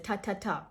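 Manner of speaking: "ta, ta, ta" with crisp released T's; "ta, ta, ta", each T sharply sounded. Shown as a demonstration. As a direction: tap out "ta, ta, ta" as short hard T syllables. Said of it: "how you usually pronounce it".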